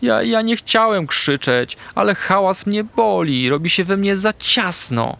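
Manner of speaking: high, halting confession; small puppy voice, distressed; trembling, upset puppy. A narrator's reading. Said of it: "Artek cały drżał".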